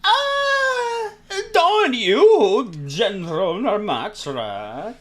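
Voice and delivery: very high, loud cry easing down; guy version of Dory. Acted. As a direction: screech it as an over-the-top male villain. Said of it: "do the guy version of this".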